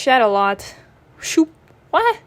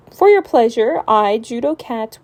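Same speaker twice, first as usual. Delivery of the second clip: grand announcement; 7 dB louder than usual. Acted.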